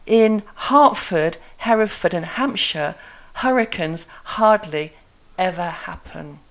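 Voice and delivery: breathy H starting "Hertford, Hereford and Hampshire"; measured "hurricanes hardly ever happen", each H sounded; H articulation drill. Shown as a demonstration. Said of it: "try saying this".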